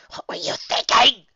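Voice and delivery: breathy, hushed worry; faint voice. A narrator's reading. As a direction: ask it under her breath. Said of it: "said in a faint voice".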